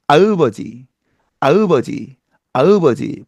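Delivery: 아으버지 with an added eu vowel; 아으버지 said with a foreign inserted eu; English accent Korean. Shown as a demonstration. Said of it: "이렇게 발음한다면".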